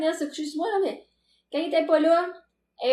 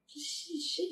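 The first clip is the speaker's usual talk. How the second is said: flush sound; 16 dB quieter than usual. Shown as a demonstration. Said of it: "C'était".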